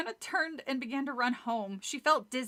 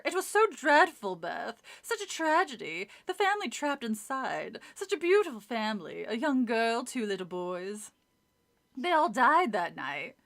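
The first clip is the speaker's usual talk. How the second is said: snobby voice; 3 dB louder than usual. Acted. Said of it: "do the snobby voice for both".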